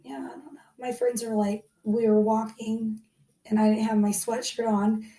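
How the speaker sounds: croaky cold voice; hoarse voice. Real, not acted. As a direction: speak hoarse, like a sore throat. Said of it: "but I sound like this".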